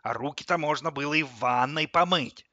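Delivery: loud grumpy scolding; disgruntled grumble. A narrator's reading. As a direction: grumble loudly like a stingy tap. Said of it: "недовольно буркнул тот". (громко, недовольно ворча)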